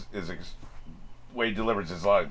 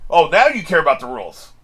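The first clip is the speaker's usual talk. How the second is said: sarcastic; 5 semitones higher, 10 dB louder than usual. Real, not acted. Sarcastic jab at character.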